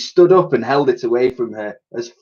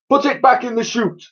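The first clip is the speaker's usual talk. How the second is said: put-on gruff old soldier voice; 13 semitones higher than usual. Sergeant voice.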